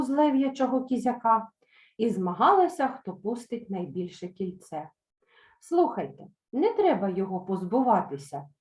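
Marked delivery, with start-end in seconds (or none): 5.6-8.5 pleading. Acted. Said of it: "попросила Нічка".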